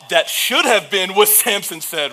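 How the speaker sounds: loud, slow, high-pitched mock wonder; excited exclamation. Preacher acting Samson finding honey in the lion, excited. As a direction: blurt it out in playful amazement.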